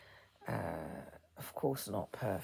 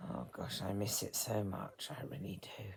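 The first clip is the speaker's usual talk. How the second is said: real grief; 4 semitones lower than usual. Real, not acted. Grieving her late father aloud.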